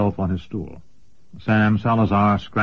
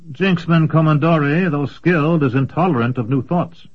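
put-on hesitant young apprentice; 7 semitones higher, 4 dB louder than usual. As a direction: complain cautiously about his master.

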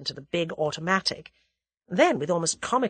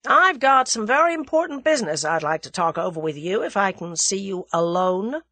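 American visitor getting down to business, pitched up; lightly voiced American, raised and forceful; brisk American businessman; 3 semitones higher, 4 dB louder than usual. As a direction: play the forthright American caller.

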